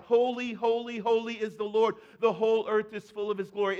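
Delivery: loud proclaiming call; crying out. Retold or imitated. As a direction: call it out across heaven like an angel. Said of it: "another one would cry out".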